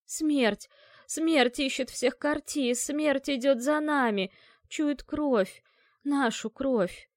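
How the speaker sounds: high, loud, slow frantic cries; terrified raving. A narrator's reading. Dead woman crying that Death hunts the Kartis, terrified wail. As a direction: wail the omen in panic.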